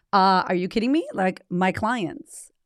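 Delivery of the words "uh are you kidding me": louder, scoffing; incredulous retort. Retold or imitated. Podcaster answering fans, incredulous. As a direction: scoff at the question. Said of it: "I'm like".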